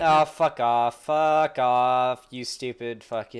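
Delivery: furious cursing at the screen; swearing tirade. Real, not acted. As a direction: spit out the swears, fed up. Ranting at the clip he watches.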